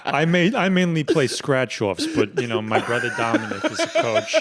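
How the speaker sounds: put-on lightly done old Boston man, chuckling; a touch of the old-timer Boston voice; old money Boston accent. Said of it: "That's so good".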